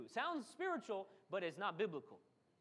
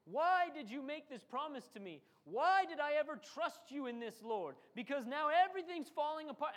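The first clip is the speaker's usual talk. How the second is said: complaining to God; 4 semitones higher, 3 dB louder than usual. Retold or imitated. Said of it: "we start talking like the Israelites".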